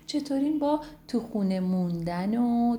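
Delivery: sweet sing-song greeting to little ones; a bright hello to young listeners; reading to children. Acted. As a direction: greet the kids like a storyteller auntie. Greeting children before story.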